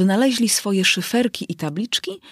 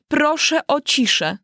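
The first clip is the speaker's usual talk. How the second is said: king's higher, slow call for order; lightly raised royal command; a mild call to the court for silence; 9 semitones higher than usual. Acted. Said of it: "zawołał król".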